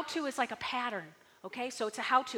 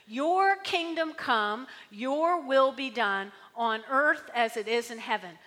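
scripture reading; 4 dB louder, slower than usual. Shown as a demonstration. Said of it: "Here, verse ten".

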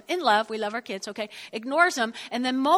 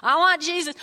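lightly mocking churchgoer; 3 semitones higher than usual. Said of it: "So y'all".

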